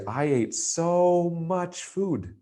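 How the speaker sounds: so much food, slow and lifted; drawn-out so. Shown as a demonstration. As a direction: drag out so as if stuffed. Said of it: "what's that feeling if you say".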